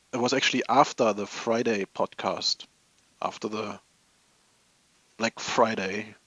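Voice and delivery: ordinary delivery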